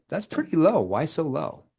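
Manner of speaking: mild surprise. Shown as a demonstration. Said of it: "See how I shift the tone?".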